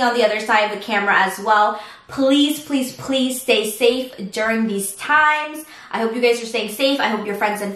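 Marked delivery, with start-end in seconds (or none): 2.1-5.6 slow, earnest pleading; sincere plea. Real, not acted. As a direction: beg them gently to stay safe. Pleading with viewers to stay safe.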